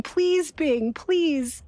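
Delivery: pleading high, repeating please; begging. Retold or imitated. User begging Bing to believe them, high pleading. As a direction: beg the chatbot to just listen. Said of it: "This person's begging".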